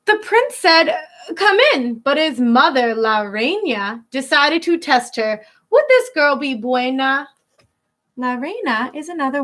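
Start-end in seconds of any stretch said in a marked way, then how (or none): 0.0-7.3 put-on lilting read-aloud for kids; storybook reading. Teacher reading a rhyming picture book to children, lilting. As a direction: read the rhyme to a class.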